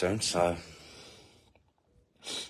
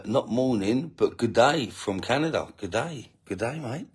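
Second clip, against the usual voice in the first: a hammed-up attempt at a Canadian accent, slightly higher; mock Canadian accent; 4 semitones higher than usual. Reading a Canadian viewer's greeting in a mock Canadian accent. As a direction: tries a Canadian accent and it drifts toward Australian. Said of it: "No, that's not Canadian".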